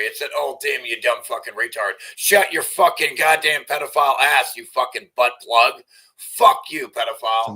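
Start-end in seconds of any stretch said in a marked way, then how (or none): 2.2-7.6 loud, raging insults; angry yelling. Real, not acted. Streamer screaming insults at the man on screen in rage.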